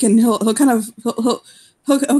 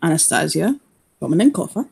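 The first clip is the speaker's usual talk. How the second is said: gentle. Acted. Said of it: "he'll say gently".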